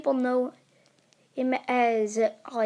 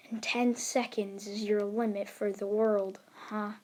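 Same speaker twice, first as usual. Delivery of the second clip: soft, unhurried delivery; 5 dB quieter than usual. Acted. Acted hero taunting his foe.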